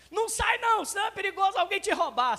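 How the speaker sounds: anxious mother's mock alarm; warning parent. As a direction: frighten the child into staying. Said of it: "os pais da gente antigamente falavam isso".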